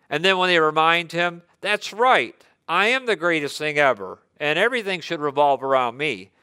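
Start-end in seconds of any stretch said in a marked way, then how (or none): 1.6-6.3 cocky bravado. Retold or imitated. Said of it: "that bravado or that, that gusto".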